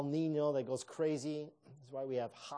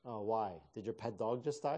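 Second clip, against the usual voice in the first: sarcastic. Retold or imitated. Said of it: "So I kind of sarcastically said".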